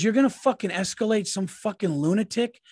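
retold scolding. Wife telling husband off over the neighbor, retold scolding. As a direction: mimic a partner laying into you. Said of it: "She fucking laid into me".

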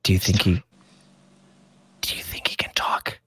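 secretive kids whispering badly; stage whisper. Stable boys whisper about the robot, stage whisper. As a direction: hush it like a bad secret. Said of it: "that same kind of stage whisper where they're like, they're trying to be secretive".

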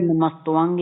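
ਨਮਸਤਵੰਗ said "namastuvang"; "-tuvang" ending on ਨਮਸਤਵੰਗ; "tuvang" pronunciation. Shown as a demonstration. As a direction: put a short "u" after the t in ਨਮਸਤਵੰਗ. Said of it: "ਹੀ ਪੜ੍ਹਨਾ".

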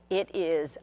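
unvoiced whisper, slowed; slow whispered warning. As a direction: hush the warning like a secret. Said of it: "family warning, whispered close".

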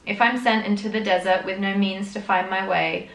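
poem read with solemn earnest lilt; earnest recital of a devotional poem; reading a poem aloud. Acted. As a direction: read it like a hymn verse. Reads a hymn-like poem.

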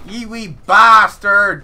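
slow loud rolling Scottish brogue; gruff Scottish lord. Pretend. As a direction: growl it like a Highland laird. Mock-Scottish insult at enemy.

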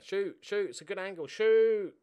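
egging his player on to shoot; urging shout. Real, not acted.

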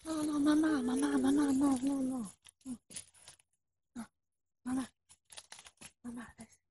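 put-on phone call to mama, Russian accent; fake Russian accent. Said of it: "I am not really real fake Russian spy".

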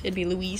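"Luis" said loo-EES; Spanish pronunciation. Shown as a demonstration. Explaining how Spaniards say "Luis", demonstrating it softly with a long ee. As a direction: stress the long ee ending of "Luis". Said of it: "for Mexicans or Spanish".

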